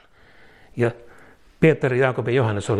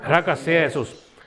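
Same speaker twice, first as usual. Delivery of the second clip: slower second call, drawn out and solemn; proclaimer's voice; 2 semitones higher, slower than usual. Shown as a demonstration. Pastor leading the church in proclamation, slow solemn call. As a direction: lean into it slowly, like a herald. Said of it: "julistajan äänellä".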